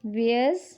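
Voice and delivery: "obviously" in isolated chunks with long pauses, ob, vias, ly; teacher splitting "obviously" into three; broken into syllables. Shown as a demonstration. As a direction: sound out "obviously" one slow part at a time. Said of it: "तीन भागों में break किया".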